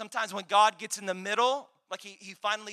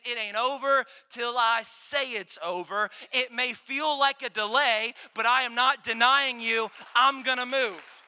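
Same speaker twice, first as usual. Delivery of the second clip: louder, firm preacher voicing God; emphatic divine declaration; 5 dB louder than usual. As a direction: declare it forcefully as God's promise. God's declaration acted out to congregation.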